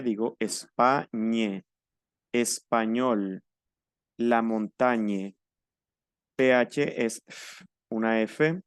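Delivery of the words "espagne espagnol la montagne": España, español, la montaña said slowly in syllables; French GN as ñ. Shown as a demonstration. Teacher gives examples of GN, slow careful ñ. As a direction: linger on each word, GN as "ny" in España, montaña. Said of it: "La G y la N es ñ".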